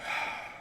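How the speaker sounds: soft, voiceless exhale; acted heavy sigh. Guy reenacting leaning on the wall in distress, breathy sigh. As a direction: let out a deflated breath. Acts his distressed reaction.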